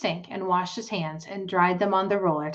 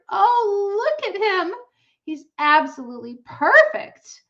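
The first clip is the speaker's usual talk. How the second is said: awed whisper; 13 semitones higher, 6 dB louder than usual. A narrator's reading. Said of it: "she whispered".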